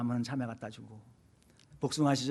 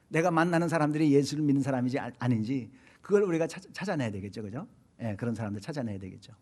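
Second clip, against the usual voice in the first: usual speaking voice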